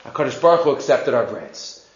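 low, soft acted awe; imitated hushed, humble report; hushed news. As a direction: share it quietly with the wife. First take of good news.

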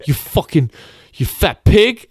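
high, loud hammed-up abuse; cartoonish road rage insult; mock insult yell. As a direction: spit it like an enraged driver. Retold meme driver insulting passenger.

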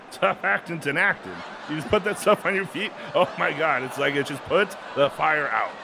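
John Madden. Acted. Continuing Madden bit.

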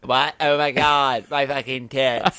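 talking with mouth held open; words through a gaping mouth; mouth propped open. Pretend. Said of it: "Even worse, I can't close my mouth all the way".

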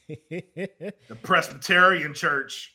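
slow, laughing through the words. Real, not acted. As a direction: chuckle the words out slowly. Laughing through the church line.

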